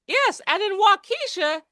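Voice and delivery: "Waukesha" with stress on KEE, wau-KEE-sha; misplaced syllable stress. Retold or imitated. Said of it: "He put the emphasis on the wrong syllable".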